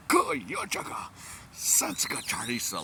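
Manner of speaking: rapid high Korean phrase; Korean impersonation. Shown as a demonstration. 한국 직장인 흉내, 빠르게. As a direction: rattle it off like a Korean coworker. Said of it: "I'll try to do my Korean, uh, impersonation".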